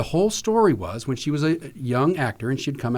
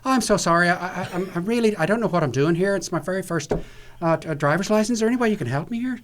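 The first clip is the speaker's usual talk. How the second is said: put-on Irish accent; 5 semitones higher than usual. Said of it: "She said".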